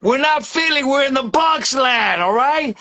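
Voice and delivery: real overexcited rant. Real, not acted. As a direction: get carried away hyping your team. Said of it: "I'm going overexcited here".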